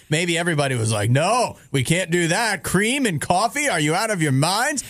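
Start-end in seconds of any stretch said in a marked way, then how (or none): 1.1-4.8 hammed-up incredulous objection; mock disbelief. Acts out everybody's shocked reaction.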